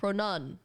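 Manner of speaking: Pronun said as pro-nun; Pronun, rhyming with fun; nun, not noun. Shown as a demonstration. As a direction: stop Pronun on a short U. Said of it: "It's this one".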